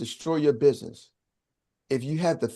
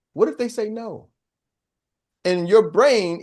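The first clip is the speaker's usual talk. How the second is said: usual speaking voice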